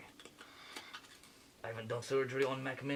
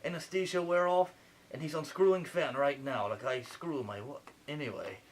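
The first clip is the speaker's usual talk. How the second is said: lightly put-on French accent playing a surgeon; a French surgeon narrating the operation, a hint of French accent; fake French accent. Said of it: "Sorry for the accent".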